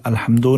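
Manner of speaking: अल्हम्दु as "alhamdo"; faulty O at the end of अल्हम्दु; O ending, wrongly. Shown as a demonstration. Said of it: "नहीं पढ़ना है".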